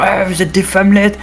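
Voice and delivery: mocking taunt. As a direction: taunt them to lure them out of the cave. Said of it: "moquerie cruelle".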